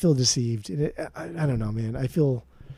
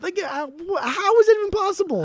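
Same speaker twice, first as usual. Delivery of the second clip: very high-pitched, incredulous squawk; incredulous outrage; 4 dB louder than usual. Acted. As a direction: push the disbelief way up high. Mock outrage at Irvine Company.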